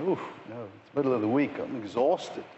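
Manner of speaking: lightly voiced tired excuse. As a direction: mimic a lazy churchgoer begging off. Mocking tired churchgoer's excuse.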